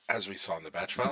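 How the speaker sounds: talking through hiccups. Real, not acted. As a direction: speak with hiccups. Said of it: "excuse me, got the hiccups".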